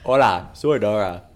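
mock Dora voice. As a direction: announce it like the cartoon explorer. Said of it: "I also speak Spanish".

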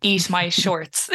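slow Irish-accented catchphrase with a laugh; own Irish accent. Shown as a demonstration. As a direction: say it slowly in an Irish accent, amused. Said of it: "in our accents either".

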